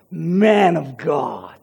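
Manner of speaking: very slow, low, bitter Man of God; sarcastic man of God. Shown as a demonstration. Preacher repeating the widow's jab, low and scornful. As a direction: spit out Man of God with contempt. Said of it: "hear the sarcasm dripping from her mouth".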